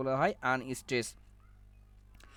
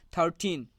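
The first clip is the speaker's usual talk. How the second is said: থার্টিন with weight on the final টিন; teaching demo of থার্টিন, second syllable stressed. Shown as a demonstration. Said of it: "টিন শব্দের উপর জোর প্রদান করা হয়".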